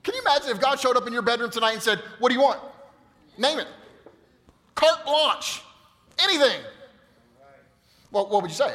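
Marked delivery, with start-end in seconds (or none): 2.2-6.6 higher, louder booming offer from God; God offering anything. Pretend. Pastor voicing God's generous offer, higher and louder. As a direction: call it out like God granting any wish.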